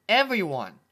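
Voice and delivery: loud, high joyful cry; excited shout. Acted. Filly answers Dash's question, loud and gleeful. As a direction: shout it out with glee. Scootaloo exclaims.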